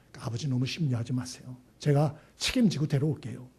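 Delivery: low, soft reassurance; calm the worried father gently; a loving son reassuring his father. Acted. Good son comforting father.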